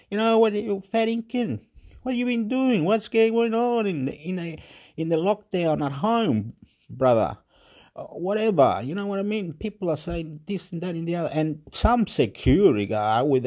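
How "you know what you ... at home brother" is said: Australian mate banter. Shown as a demonstration. Aussie mate greeting continued.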